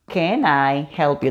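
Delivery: "Can I ... help you" said slowly in two chunks; slow teaching take of "Can I help you"; split in two. Shown as a demonstration. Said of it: "Dos estrofas".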